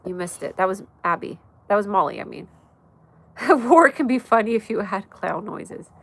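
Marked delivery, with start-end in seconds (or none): 3.4-5.9 laughing. Real, not acted. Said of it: "Tony, you crack me up".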